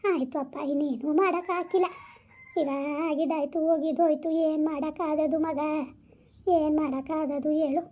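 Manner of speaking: gentle, hushing reassurance; calm a crying child with patient pleading; tender soothing. Acted. Soothing a crying loved one.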